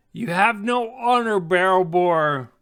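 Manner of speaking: high, loud accusing shout; angry yell. Acted. Half-elf newcomer accusing a dwarf on the dock, yelling. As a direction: yell it out in outrage. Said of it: "the newcomer yells".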